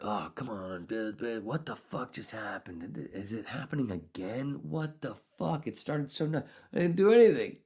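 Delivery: mock panic. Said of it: "I'm like".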